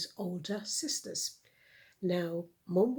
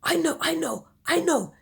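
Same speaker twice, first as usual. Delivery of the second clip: put-on frantic boy; 10 semitones higher, 10 dB louder than usual. Cliff frantic.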